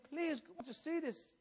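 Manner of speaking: slow, softened entreaty; pleading. Retold or imitated. Preacher voices Christ urging the people to see, slow plea. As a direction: implore them slowly and softly. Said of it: "He's pleading with you".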